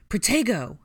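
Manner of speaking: high, loud spell shout. A narrator's reading. Harry blocks Ginny from harm, shouting. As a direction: cast it at full voice. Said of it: "Harry shouted".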